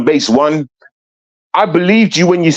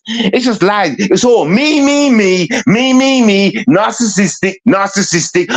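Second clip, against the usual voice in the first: higher-pitched mock self-centred woman; mocking imitation; 4 semitones higher than usual. Man mimicking Kiki coming back with excuses, mocking. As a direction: parrot her excuses, jeering at them. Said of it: "you got the cheek to keep coming back".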